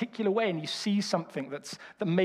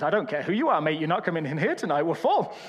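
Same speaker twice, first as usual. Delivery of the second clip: firm Birmingham refusal; Birmingham accent; 3 semitones lower than usual. Retold or imitated. Jeff refusing the famous musician in a Birmingham accent. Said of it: "a lot of development to get this accent".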